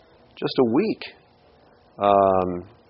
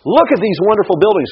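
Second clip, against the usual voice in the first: awed disciples; 10 semitones higher, 5 dB louder than usual. Retold or imitated. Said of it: "the disciples come up and they go".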